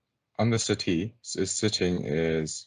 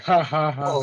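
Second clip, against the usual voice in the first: imitating a group cracking up, higher and louder; mock laughter; 7 semitones higher, 6 dB louder than usual. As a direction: put on a scoffing ha-ha laugh. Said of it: "they're all laughing".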